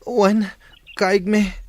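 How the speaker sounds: student shouting yes to his master mid-training; shouted reply. Acted. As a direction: bark the answer back to the master. Answering master during training.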